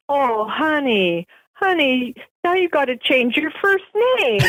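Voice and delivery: slow "honey, honey", then rising into laughter; husband's teasing. Retold or imitated. Husband teasing his wife about her name, laughing. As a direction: tease her with a building laugh. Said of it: "he goes".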